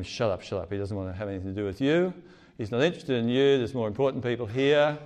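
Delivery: crowd telling the beggar off, fast mock hush. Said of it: "they're all saying to him".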